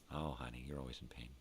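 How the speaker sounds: a hint of a bored wife sighing it off; wife's dismissive reply. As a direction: brush him off like a tired wife.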